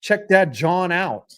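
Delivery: attempted Philly accent. Shown as a demonstration. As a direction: try a casual Philly street accent. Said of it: "Can I do a Philly accent?".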